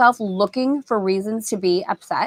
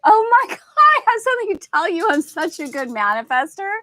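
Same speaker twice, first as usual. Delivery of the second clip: mock giddy excitement; 7 semitones higher, 4 dB louder than usual. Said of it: "How many of us get pulled over and they're like".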